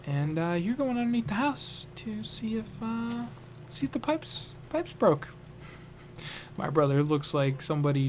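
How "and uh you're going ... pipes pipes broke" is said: higher, put-on voice for a gruff dad laying down the law; dad's voice. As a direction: play the big blustering father sending his son under the house. Dad voiced giving brother a chore.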